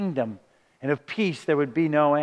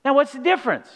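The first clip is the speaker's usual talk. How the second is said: lightly acted sweet angel, pitched up high; 7 semitones higher than usual. Angel obligingly answering Mary's question, mock-sweet. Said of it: "he's as sweet as can be".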